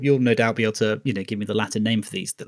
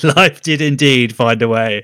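laughing; 2 semitones higher, 8 dB louder, slower than usual. Retold or imitated. Repeat of movie line, laughing.

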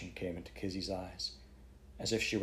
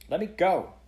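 put-on child's shriek, much higher and louder; 10 semitones higher, 7 dB louder than usual. A narrator's reading. Girl to the man holding her, loud shriek. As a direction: scream it out while wrenching free. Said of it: "The child's shriek".

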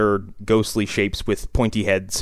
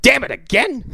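much higher, comic frustrated outburst; mock exasperation; 13 semitones higher, 4 dB louder than usual. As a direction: play a hammed-up thwarted tough guy. Acted Bronson, beaten to it.

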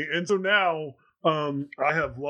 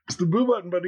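urging, raised voice; 4 semitones higher, 3 dB louder, much faster than usual. Retold or imitated. Dad urging son at game.

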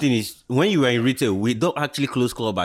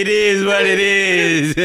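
resigned shrug; 6 semitones higher, 5 dB louder, much slower than usual. Retold or imitated. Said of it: "You have to be saying".

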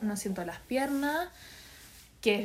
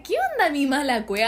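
retold exasperation; 3 semitones higher, 6 dB louder than usual. Acts her exasperated outburst in labour.

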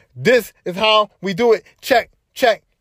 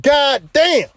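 amazed exclaim; 5 semitones higher than usual. Retold or imitated. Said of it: "it's like".

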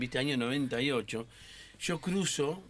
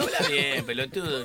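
mock scolding, half-laughing; mild mock rebuke; retold scolding; 4 dB louder than usual. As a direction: tell him off, lightly loud. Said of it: "digo yo".

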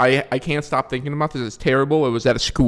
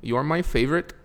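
attempted Middle Eastern accent, softer; put-on Middle Eastern accent; 6 dB quieter than usual. Comic retrying his fans' messages, mock Middle Eastern accent. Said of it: "why I do that accent".

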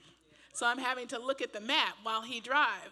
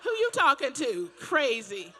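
mock sassy warning; 4 semitones higher, 5 dB louder than usual. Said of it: "And I'm like".

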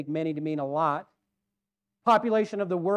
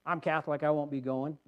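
imitating a stern woman, low and quiet; quietly imitated sternness, pitched down; stern refusal; 4 semitones lower, 5 dB quieter than usual. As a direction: retell her curt refusal in a low, softened voice. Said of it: "She said it real sternly".

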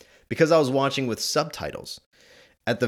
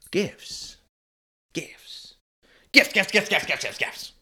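Grinch monologue; 3 semitones higher, slower than usual. Retold or imitated. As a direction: build from sly to unhinged ranting. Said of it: "this monologue when he's at the".

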